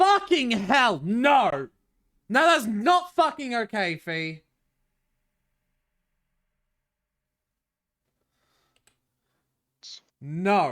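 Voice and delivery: very high, very loud, shrill, frantic, startled yell. Scared by fee while setting up a backdoor in the game, yelling. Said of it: "Sorry for yelling".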